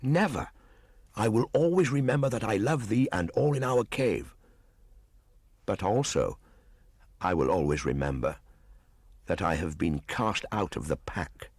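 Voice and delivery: put-on a wild boy puzzling aloud; young Mowgli. Mowgli answers Grey Brother.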